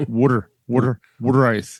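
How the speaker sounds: thick Philadelphia accent. A lifelong Philadelphian showing off their accent, in a Philadelphia accent. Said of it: "Can't you tell by this accent?".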